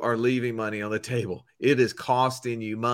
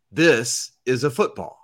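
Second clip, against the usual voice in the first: tag; 4 dB louder than usual. Retold or imitated. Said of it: "He said".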